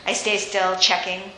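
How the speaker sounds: steady first-person novel reading; story reading. A narrator's reading. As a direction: read the chapter to the audience. Author reads her novel aloud.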